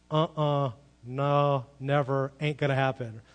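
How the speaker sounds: separate, weighted beats on "no, never"; firm no, each refusal set apart; emphatic refusal. Retold or imitated. Explaining God's no to Abraham, emphatic refusal. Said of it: "It's an emphatic".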